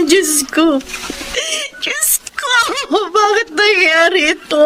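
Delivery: choked, breaking cries of grief; distraught sobbing. Acted. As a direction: fall apart in despair. Wife breaks down over husband.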